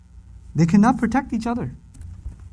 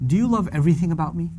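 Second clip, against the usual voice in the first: fast plain question; faster than usual. Retold or imitated. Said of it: "if you were to ask".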